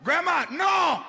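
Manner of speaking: shout. Retold or imitated. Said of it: "everything was no".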